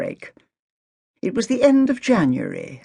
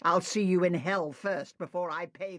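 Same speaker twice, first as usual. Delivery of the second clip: furious mutter; 2 semitones higher, 10 dB quieter than usual. Acted. Agatha's defiant muttered retort.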